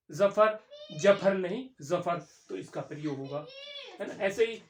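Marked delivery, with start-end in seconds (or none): 0.1-2.2 जफर contrasted, z then j then z; z versus j sound. Shown as a demonstration. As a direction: say "zafar", then "jafar", then "zafar". (ज़फ़र और जफर का अंतर)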